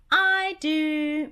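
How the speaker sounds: high, loud squeaky cartoon mouse; Mickey voice. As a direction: pipe it up like Mickey. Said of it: "Mickey said".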